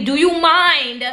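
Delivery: slow, high "Do you mind?" kept polite; polite slow ask. Retold or imitated. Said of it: "These are all words of great vibe".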